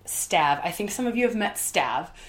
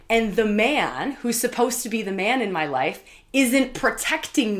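heated outburst; 4 semitones higher, 5 dB louder than usual. Retold or imitated. Venting retold anger and fear.

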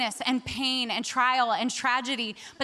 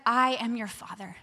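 lower, measured assurance; fatherly assurance; 4 semitones lower than usual. Retold or imitated. God reassuring the anxious speaker, fatherly assurance. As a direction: state it calmly and firmly, stretching "I".

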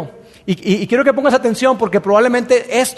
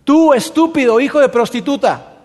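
angry insult; 4 semitones higher than usual. Acted. Saúl insulting Jonatán at dinner, angry. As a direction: hurl it at the son in rage. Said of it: "lo hizo un poquito más explícito".

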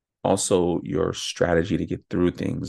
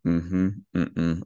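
sacral hums. Shown as a demonstration. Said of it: "Those are sacral sounds".

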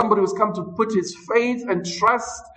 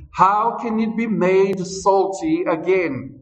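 scripture reading. Acted. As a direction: read each phrase deliberately to the church. Reads scripture aloud slowly.

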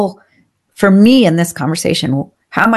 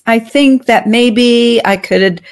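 slow, hesitant hedging; unsure weak leader; meek; slower than usual. Shown as a demonstration. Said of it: "it's conditional".

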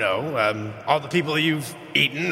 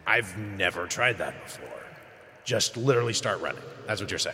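hushed; 5 semitones lower, 7 dB quieter, faster than usual. Real, not acted. Whispered reply in hiding.

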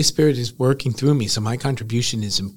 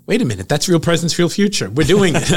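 excited; 5 semitones higher, 6 dB louder than usual. Retold or imitated. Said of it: "I said".

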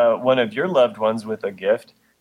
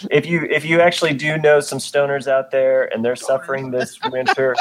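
flat monotone reading; deadpan monotone delivery, like a bored lecturer. Real, not acted. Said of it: "I will try not to do that monotone voice anymore".

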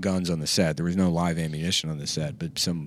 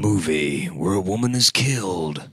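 movie-trailer announcer. Acted. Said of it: "Now you're just in a world".

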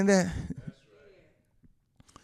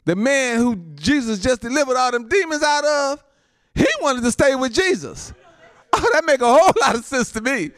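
raised, emphatic pulpit delivery, growing louder; excited preaching; 7 semitones higher, 5 dB louder than usual. Real, not acted. Preacher explains the delivered man's wish, excited preaching. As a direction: exclaim as the point lands.

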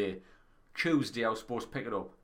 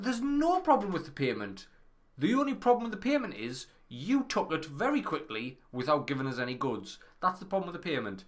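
exasperated rant; 5 semitones higher than usual. Retold or imitated. Retold angry phone rant.

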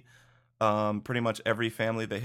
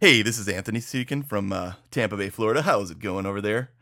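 fake radio caller voice; 5 dB louder than usual. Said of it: "did that sound good?".

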